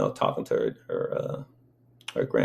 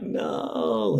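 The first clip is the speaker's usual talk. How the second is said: mild mock wail; imitated baby crying; 4 semitones higher than usual. Baby clinging on as his mama calls, mild imitated crying. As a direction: lightly mimic a crying baby's protest. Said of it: "and starts crying".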